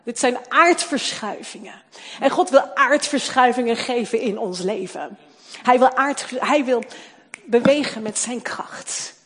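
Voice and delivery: loud, proclaiming sermon climax; preaching at full force. Acted. Preacher proclaiming God's earthquakes to congregation, loud. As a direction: declare it to the room.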